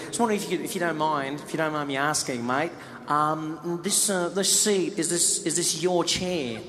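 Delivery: soft, hesitant mock Australian politeness; halting, over-polite request; tentative courage. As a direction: tiptoe round the question, slowing as you reach it. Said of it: "finally he plucks up the cour-, the courage".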